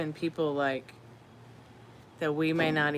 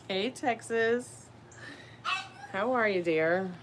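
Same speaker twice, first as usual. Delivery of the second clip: higher, slow doggy greeting; pet talk; 7 semitones higher, slower than usual. Real, not acted. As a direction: coo slowly to the dog. Greeting her dog.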